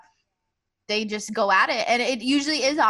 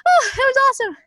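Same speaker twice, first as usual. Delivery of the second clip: much higher, nervous mock relief; high awkward voice; 12 semitones higher than usual. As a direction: voice the awkward moment. Retold awkward post-hug moment.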